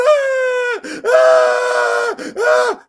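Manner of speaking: imitated toddler bawling ah ah ah; child's wail. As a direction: wail like a small girl in tears. Child wailing on phone.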